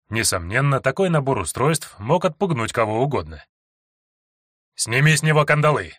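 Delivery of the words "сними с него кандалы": rough command. Acted. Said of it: "грубо скомандовал один стражник".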